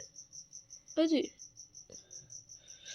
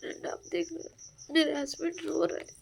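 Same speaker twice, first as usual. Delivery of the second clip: hushed, fast whisper to the camera; 2 semitones higher, 6 dB quieter than usual. Real, not acted. Telling her viewer friend that her husband cries, whispered. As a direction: whisper so he won't hear.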